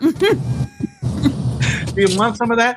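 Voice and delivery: high, slow, whiny "Noah" with a nasal A; sing-song teen girl whine; teenage girl. Retold or imitated. Mocking a teenage girl calling Noah, high and whiny. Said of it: "like a teenage girl saying".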